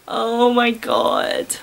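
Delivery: weary disbelief. Real, not acted. Reader finishes the cringe text.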